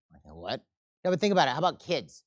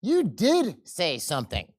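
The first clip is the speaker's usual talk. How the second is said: slow angry insistence; 3 semitones higher, 4 dB louder, slower than usual. Acted. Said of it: "the angry fellow says".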